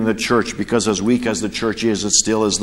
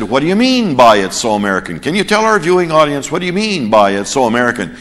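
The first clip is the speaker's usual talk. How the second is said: louder, probing interviewer voice; pressing TV reporter; 3 dB louder, faster than usual. Retold or imitated. US reporter pressing the foreign reporter, louder and probing. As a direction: dig for the answer on air.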